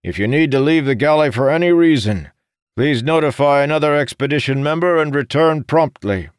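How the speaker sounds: loud, high-pitched official announcement; booming voice. A narrator's reading. First officer briefing the expedition aboard ship, booming. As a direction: project every word to a full room. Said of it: "in a booming voice".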